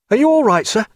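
high, urgent call; shouted. A narrator's reading. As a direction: call out loudly to someone across the water. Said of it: "he shouted".

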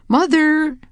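calling out. A narrator's reading. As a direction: call out searching for her. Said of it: "Harriet called".

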